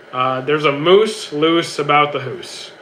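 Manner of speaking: lightly done Canadian ooh in hoose; a faint Canadian ooh on "hoose"; Canadian accent. Shown as a demonstration. Streamer humoring chat's request, faint Canadian accent. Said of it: "you're trying to do the Canadian accent thing with the, the ooh sound".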